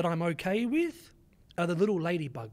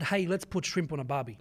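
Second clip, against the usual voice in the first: a lightly put-on Australian accent, a bit low; mock Aussie line; 4 semitones lower than usual. Mocking the line no Australian says, light Australian accent. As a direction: toss off the cliché like a bloke at a barbecue. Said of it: "An Australian has never said".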